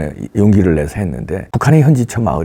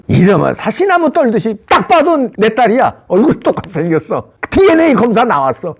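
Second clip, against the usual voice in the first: panicked alarm; 10 semitones higher than usual. Acted. Panicked victim sees the proof.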